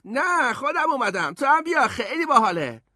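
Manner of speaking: put-on high, loud, lively kid voice; cheerful boy. A narrator's reading. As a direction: call up to your brother, delighted. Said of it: "برادرش خندید و گفت".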